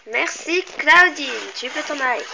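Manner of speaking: loud dismissal. Pretend. Dismissing the character loudly.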